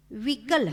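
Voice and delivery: विकल said crisply as a whole word; विकल read out as a sample. Shown as a demonstration. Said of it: "एक शब्द ले रही हूं".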